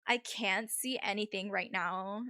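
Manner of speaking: lightly voiced Valley girl; a hint of Valley-girl accent. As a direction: play it as a mild Valley girl. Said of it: "This accent is definitely".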